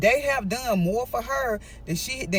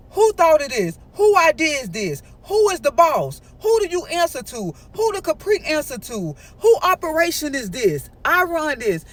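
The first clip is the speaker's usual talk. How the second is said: boastful demands; 3 semitones higher than usual. Retold or imitated. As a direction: bark the questions like the boss. Mike boasting he's the boss.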